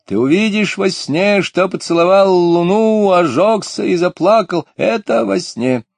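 high, loud playful shout. A narrator's reading. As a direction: call it out high like a child teasing. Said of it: "и закричала".

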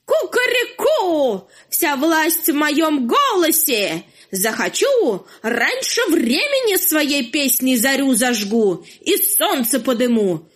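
boastful rooster. Acted. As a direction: crow it like a bragging cock. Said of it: "всех пугал".

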